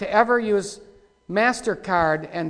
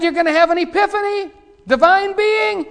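high, fast mocking mimicry; mock him in a much higher put-on voice; mocking quote; 11 semitones higher, 6 dB louder than usual. Preacher mocking a new-age preacher's words, much higher and sneering. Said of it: "How can anybody talk like that?".

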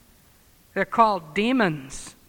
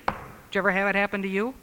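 normal talking voice

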